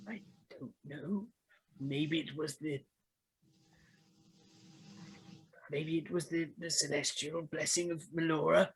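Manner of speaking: hesitant, halting character voice; lightly voiced Charlie. Charlie explains waking up on the egg, hesitant and halting. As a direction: softly piece it together, with pauses. Game master plays Charlie.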